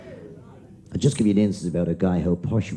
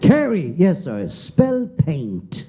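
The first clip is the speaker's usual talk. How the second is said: teacher barking names, louder; loud roll call; 7 semitones higher, 4 dB louder, slower than usual. Acted. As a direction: call out a name across the classroom.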